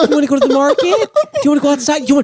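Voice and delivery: put-on high sing-song baby talk; patronizing old-people voice; condescending elder talk. Mocking talking down to elders.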